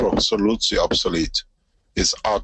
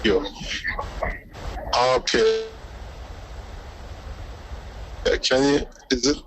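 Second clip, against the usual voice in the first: glitching audio; 4 dB quieter than usual. Real, not acted. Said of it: "Oh, we lost it again".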